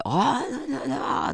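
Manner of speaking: high loud baby babble, imitating; a baby yelling at a stranger, high and loud; baby babbling loudly. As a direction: mimic a baby shouting syllables. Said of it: "でっかい声で".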